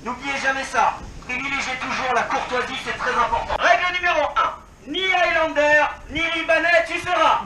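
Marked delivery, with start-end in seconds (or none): 3.6-7.4 solemn rule recital. Acted. Reciting the airsoft rules.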